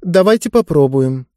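lightly voiced girl offering to try; hesitant girl. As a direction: reason it out aloud.

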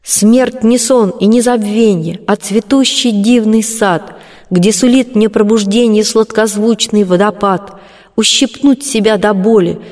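light, weightless poem reading; light verse recitation. A narrator's reading. Colombina makes her final draft lighter, weightless verse recitation. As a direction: recite lightly, without mockery. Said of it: "без глумливости и не так протяжно. Легче, невесомей".

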